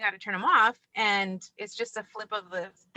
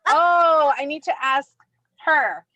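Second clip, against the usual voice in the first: louder start, thrilled gadget fan; husband's eager mimic; 4 dB louder than usual. Husband gushing over smart-speaker lights, thrilled. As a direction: gush about the new toy. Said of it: "he's all excited".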